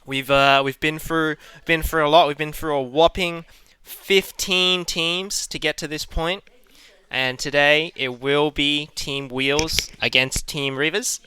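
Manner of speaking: energetic tournament host intro; esports caster. Real, not acted. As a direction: hype up the match like a caster.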